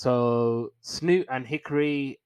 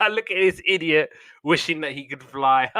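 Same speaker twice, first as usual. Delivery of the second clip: mocking; 4 semitones higher, 5 dB louder than usual. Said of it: "like, giggling".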